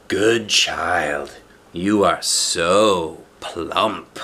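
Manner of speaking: slow sly crooning wolf; greedy wolf. Acted. Wolf hugs the plump child, slow greedy croon. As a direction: savor the words like a hungry wolf.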